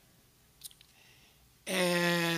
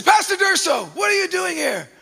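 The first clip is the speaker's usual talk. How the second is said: put-on Jamaican accent greeting; 12 semitones higher, 6 dB louder than usual. The officer greets the pastor loudly in a Jamaican accent. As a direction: hail a friend warmly in a Jamaican accent. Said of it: "in this strong Jamaican accent".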